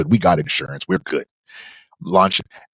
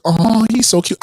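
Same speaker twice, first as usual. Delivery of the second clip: put-on high cooing baby talk; a hint of gushing mom; 12 semitones higher than usual. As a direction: coo over the baby, pitched way up.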